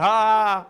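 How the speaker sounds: mock belly laugh; put-on single "ha"; forced laugh. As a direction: laugh loudly at a joke you didn't get. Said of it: "so I just started laughing".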